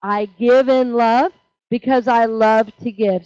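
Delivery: slow, firm unison recital; slow group affirmation. Shown as a demonstration. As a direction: lead the room through it slowly. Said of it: "Will you say that with me?".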